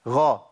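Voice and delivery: "غا" with a full, heavy open a; ghayn with fatha. Shown as a demonstration. Teacher demonstrating ghayn with fatha for students. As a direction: sound out "غا" as a drill syllable. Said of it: "الغين المتحركة بفتح".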